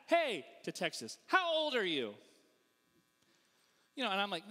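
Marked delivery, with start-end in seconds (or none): 0.1-0.4 higher, louder call-out; imitated shout. Missouri guy shouting back to Texas, loud. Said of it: "so he shouts back". 1.3-2.1 raised, higher challenge; imitated shout. Missouri guy challenging the Texas woman, shouted. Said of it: "so he shouts back".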